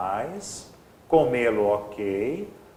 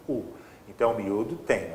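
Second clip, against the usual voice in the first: ordinary talk, nothing marked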